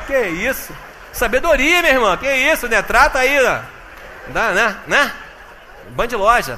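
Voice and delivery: loud, high, bantering mock disbelief; excited comic retelling. Man telling the church how his future wife first looked, loud mock outrage. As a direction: keep the joking outrage rolling.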